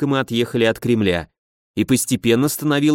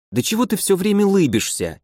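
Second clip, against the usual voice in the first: higher-pitched, mildly irked question; grumpy demand, pitched up; displeased snort; 7 semitones higher than usual. A narrator's reading. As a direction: ask it with a touch of huffy annoyance. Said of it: "недовольно фыркнула Васька".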